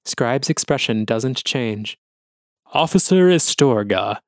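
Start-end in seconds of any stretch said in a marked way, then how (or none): 2.7-4.2 firm reply. Acted. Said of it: "Scribe responds".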